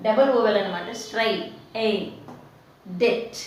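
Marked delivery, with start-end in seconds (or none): 3.0-3.4 డెట్ with no B sound; silent B. Shown as a demonstration. Teacher shows debt's B is silent, silent B. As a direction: say డెట్ as det, leaving out the B. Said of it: "ఇక్కడ బి silent".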